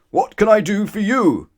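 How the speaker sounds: loud, high shopkeeper's bellow. Acted. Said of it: "bellowed the grocer".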